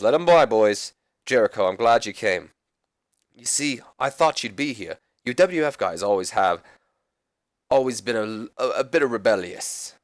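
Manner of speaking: lightly put-on, bad British accent as Regal; a hint of a badly faked British lord's accent; horrible Regal accent. Commissioner greeting Jericho in his office, badly imitated British accent. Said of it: "That's a horrible Regal accent".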